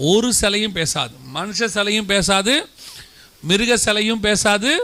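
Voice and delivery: slow, weighty declaration; emphatic. Real, not acted. Preacher insists to the congregation that no statue speaks. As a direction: drive each line home slowly.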